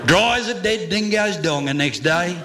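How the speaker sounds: rhythmic comic verse in broad Australian; bush ballad recital. Acted. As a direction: spin a rollicking Aussie yarn in rhyme. Bush ballad resumes after aside.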